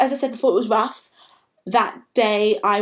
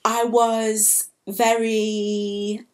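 slow, words catching with real emotion; fighting back tears; choked up; much slower than usual. Real, not acted. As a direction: voice thick as it slows. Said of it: "I'm getting a bit emotional now".

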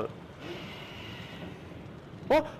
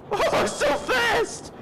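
excited cry; 11 semitones higher than usual. Real, not acted. Scary ride speeding up.

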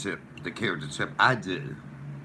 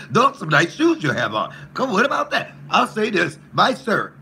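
high, loud put-on white-man voice; mimicking Chip; 5 semitones higher, 3 dB louder than usual. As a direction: ham up a chirpy square voice. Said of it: "with a white man voice".

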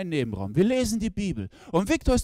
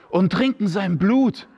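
slow, louder, laughing; laughing punchline; 8 dB louder than usual. Acted. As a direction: savour the punchline. Pointe, lachend gedehnt. (langsam, lauter, lachend)

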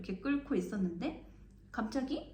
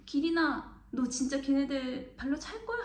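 alarmed call; 5 semitones higher than usual. Retold or imitated. Panicking at friend storming off.

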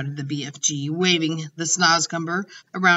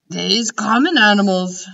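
louder, scornful giant; contemptuous; 3 semitones higher, 7 dB louder than usual. Acted. The giant scorning Sophie's question, mildly contemptuous. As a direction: sneer at her ignorance. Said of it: "said the B F G contemptuously".

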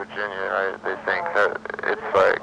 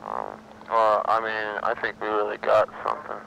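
sedated; 3 dB quieter than usual. Real, not acted. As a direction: speak like you're on downers. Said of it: "Yeah, you sound it".

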